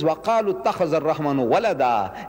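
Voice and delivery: fast Arabic recitation of the verse; Quran recitation. Acted. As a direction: recite the verse swiftly and evenly.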